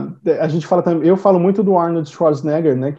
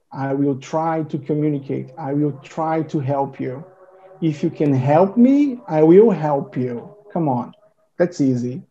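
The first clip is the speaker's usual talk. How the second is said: cada palavra separada, sem pressa; falando devagar; 2 semitones lower, slower than usual. Shown as a demonstration. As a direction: fala pausado para ser entendido. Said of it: "tá falando tão devagarzinho, tão pausadozinho". (inglês devagarzinho e pausado)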